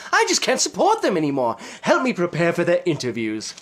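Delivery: lightly voiced showman host; James Ripton voice. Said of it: "it's your best friend, Jane".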